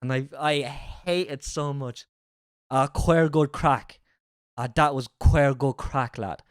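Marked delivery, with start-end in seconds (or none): 2.7-6.4 imitated small-town Carlow Irish accent; mock Carlow accent. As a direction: draw it out like a Carlow local. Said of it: "the way people speak around here".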